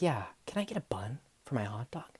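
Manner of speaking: hushed, voiceless request; imitating a customer whispering at the counter. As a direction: whisper it like a sneaky favor. Customer asks for extra bun.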